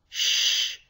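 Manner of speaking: "sh" held with no vibration; a long voiceless "sh"; unvoiced sound. Shown as a demonstration. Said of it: "you don't feel any vibrations".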